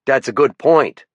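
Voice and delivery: lieutenant calling out a warden, faint French-Canadian lilt; French-Canadian accent. Acted. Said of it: "His accent tended to make his T H's sound like D's".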